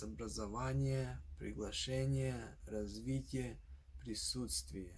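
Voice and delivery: "образование, приглашение, развитие, присутствие" stressed on ВА, ШЕ, ВИ, СУТ; образовАние, приглашЕние, развИтие, присУтствие, as an example list; stress before ie. Shown as a demonstration. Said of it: "last vowel before the ie ending".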